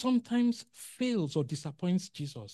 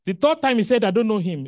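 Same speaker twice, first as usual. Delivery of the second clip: rising intensity; 5 semitones higher, 12 dB louder, faster than usual. Acted. Preacher building to Peter's denial.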